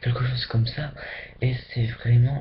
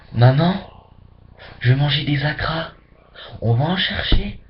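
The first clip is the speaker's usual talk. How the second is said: put-on child begging mom; 2 semitones higher, 4 dB louder than usual. Child begging mother for acras.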